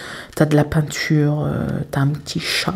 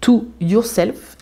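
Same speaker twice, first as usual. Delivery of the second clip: Be True to Yourself drawn out slowly in a jokey English accent; a playful put-on English accent on Be True to Yourself; mock English accent; 5 semitones higher, much slower than usual. Shown as a demonstration. Reading the canvas title to viewers in a mock English accent. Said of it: "avec mon super accent".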